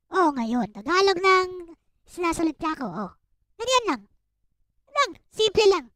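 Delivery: casual Tagalog, lightly voiced; switching to Tagalog. Shown as a demonstration. Showing a friend how easily he switches to Tagalog. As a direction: demonstrate easy fluent Tagalog. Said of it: "I can just speak in Tagalog".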